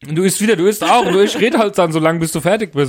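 talking while chewing; mouth full. Real, not acted. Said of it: "ich kau noch".

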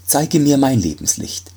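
put-on pleading young doctor; anxious doctor voice. Doctor asks Death. (höhere, drängende Stimme des Arztes)

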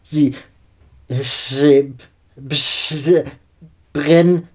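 broken words between hectic breaths; hysterical sobbing. A narrator's reading. Sobbing girl unable to speak, hysterical gasping. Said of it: "Hektisches Ein- und Ausatmen wechseln sich ab".

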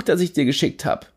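cocky friend, pushy and carefree; Jimmy Blue voice. Acted. Jimmy reassuring narrator.

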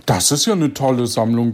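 usual speaking voice

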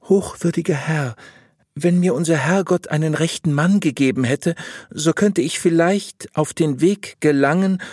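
high-voiced wife lamenting to her confessor; troubled wife seeking counsel. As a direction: raise the voice into an earnest female petitioner.

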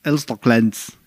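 "Elsterglanz" in an imitated East German accent; East German dialect. Repeating the comedy group's name as "Elsterglanz" in mock East German dialect. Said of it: "mit dem ostdeutschen Dialekt".

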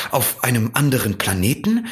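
mildly excited question rising at the end; excited fox. A narrator's reading. Fox asks the prince about his planet, mildly excited. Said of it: "Der Fuchs schien sehr aufgeregt".

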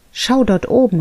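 high, loud call upward; an excited bee calling out. A narrator's reading. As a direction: call her attention to the sky. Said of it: "rief sie".

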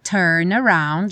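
"Turn around" run together, turnaround; joined. Shown as a demonstration. Teacher models the link: "Turn around" as one word.

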